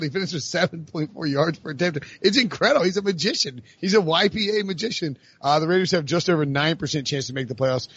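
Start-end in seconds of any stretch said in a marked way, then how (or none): 2.2-5.2 high-pitched marvelling; baffled admiration, voice lifted; amazed. Real, not acted. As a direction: hail him in incredulous wonder. Marvelling at the quarterback's stats.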